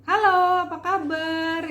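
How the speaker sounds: chirpy everyday hello; light everyday voice. Shown as a demonstration. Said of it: "maka kita akan begini". (suara ringan sehari-hari)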